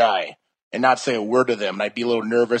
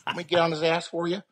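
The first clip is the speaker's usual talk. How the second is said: protective mom voice; 5 semitones higher than usual. Retold or imitated. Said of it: "She's very angry and Polish".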